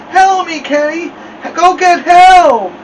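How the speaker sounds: high, loud, drawn-out muffled pleading; mumbled cry. A narrator's reading. Stuck boy begs his brother to fetch Mama, mumbled cry. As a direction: yell with your lips stuck fast. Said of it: "sounded like he had something in his mouth".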